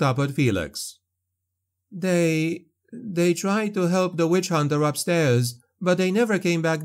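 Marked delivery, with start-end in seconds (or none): 1.9-6.8 put-on higher young woman on the edge of tears; young woman, tearful. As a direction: voice Elsa, shaken and grieving. Elsa's voice, tearful.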